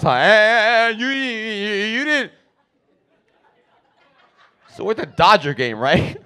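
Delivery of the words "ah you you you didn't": high, strained stammer; stuttering angry dad. Retold or imitated. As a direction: get stuck on the first sounds, mad. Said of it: "Exactly the way he talks".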